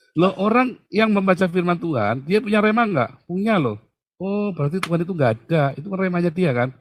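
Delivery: high-pitched, loud challenge; animated objection. Acted. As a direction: argue it back high and insistent. Argues back as an objector.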